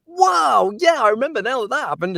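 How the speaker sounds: high, loud burst of sudden recognition; surprised realization. Retold or imitated. Narrator reading, suddenly remembers what happens next, surprised. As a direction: act out remembering a plot twist mid-read. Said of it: "I'm like".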